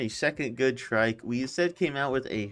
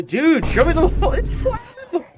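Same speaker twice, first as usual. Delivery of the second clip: much higher indignant yell; indignant shout; 13 semitones higher, 8 dB louder than usual. Real, not acted. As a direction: yell it in mock outrage. Outrage at creature level.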